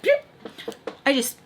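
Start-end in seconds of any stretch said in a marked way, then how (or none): 0.0-0.1 quick "pew" sound effect; imitated swerve noise. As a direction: voice a car shooting off the road. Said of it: "And so I just, like".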